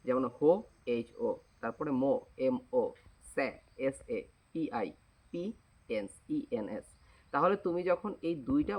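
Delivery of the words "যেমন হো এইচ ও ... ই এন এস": slow spelling-out, a pause after each syllable and letter. Shown as a demonstration. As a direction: spell হো, মো, স্যা, পিএন্স out letter by letter, slowing down. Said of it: "অর্থাৎ syllable ভাবে ভাগ করবা".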